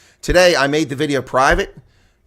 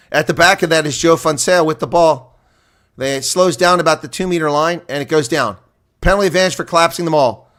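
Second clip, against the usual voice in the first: louder driving commentary on the maul; play-by-play; 4 semitones higher, 6 dB louder than usual. Acted. Streamer calls the Bulls maul, energetic play-by-play. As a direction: push the call with the maul.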